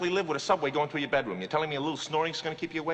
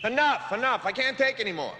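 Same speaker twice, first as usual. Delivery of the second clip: exasperated coach; 5 semitones higher than usual. Acted. Coach halts practice in exasperation.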